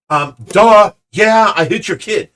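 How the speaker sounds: mock insolent comeback, hitting it hard at the start; mouthing off. Stranger mouthing off to the kid's father, mock insolence. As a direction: imitate a cocky, loud "duh" retort. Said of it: "he's mouthing off to me like that".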